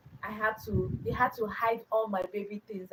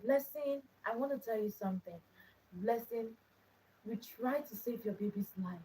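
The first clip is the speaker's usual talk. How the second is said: softer, careful bad-news voice; doctor breaking news; 6 dB quieter than usual. Doctor tells mother her baby died, soft and careful. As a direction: ease into terrible news quietly.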